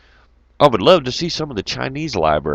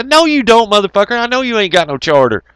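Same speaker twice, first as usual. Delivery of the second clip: mock loud retort; 9 semitones higher, 5 dB louder than usual.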